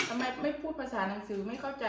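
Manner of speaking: drawn-out, very slow retelling of a commenter; mock-slow complaint; slow mocking quote. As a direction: stretch each word like a puzzled critic. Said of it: "เขาบอกว่า".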